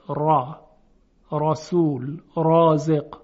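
heavy, full ر as in «رسول»; تفخیم. Shown as a demonstration. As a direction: say the ر of «رازق» thick and dark. («را، رسول، رازق» با رای درشت و مفخم)

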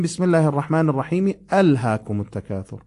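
الرحیم linked as iraħimi into الهاکم; joined recitation. Shown as a demonstration. Teacher recalling how sura Takathur is joined. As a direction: run الرحیم on into الهاکم التکاثر. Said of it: "مانند سورهٔ تکاثر نیست که گفتم همزهٔ اون باید خونده بشه".

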